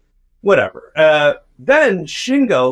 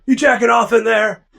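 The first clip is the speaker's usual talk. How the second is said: teasing dorm guys; 9 semitones higher, 3 dB louder than usual. Retold or imitated. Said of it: "And they're like".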